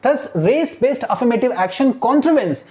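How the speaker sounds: very slow, word by word reading; slow classroom dictation of English text. Shown as a demonstration. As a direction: read it out slowly so students follow. Teacher dictating slowly.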